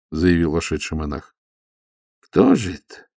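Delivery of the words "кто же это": высокий удивлённый вопрос; изумись, взлетая голосом вверх; удивлённо. A narrator's reading. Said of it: "удивлённо всплеснул руками истопник". (истопник удивлённо спрашивает монаха, высоко)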